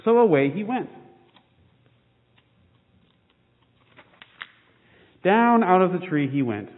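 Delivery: lively storybook reading with small character voices; reading to children. A narrator's reading. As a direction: read the picture book to the kids with gentle expression. Reads children's picture book aloud.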